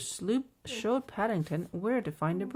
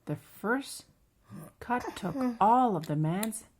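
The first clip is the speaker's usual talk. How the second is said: measured, lively picture-book narration; children's story reading. A narrator's reading.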